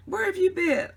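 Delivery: imitating the old man screaming, high and loud; retold scream. Old man screaming at his wife back from the bathroom, mock yell. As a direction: shout it at her like an angry husband. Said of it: "he starts screaming".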